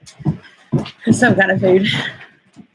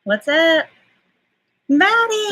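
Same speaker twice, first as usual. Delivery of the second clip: excited greeting; 10 semitones higher, slower than usual. Real, not acted. Greets sister joining the stream.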